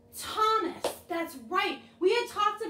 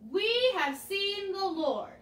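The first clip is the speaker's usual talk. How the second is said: slow, deliberate line; 3 semitones higher, slower than usual. Shown as a demonstration. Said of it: "this is where I need help".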